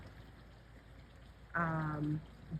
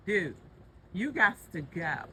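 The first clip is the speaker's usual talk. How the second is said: tough talk; 3 semitones higher than usual. Real, not acted. Shooing the animal away.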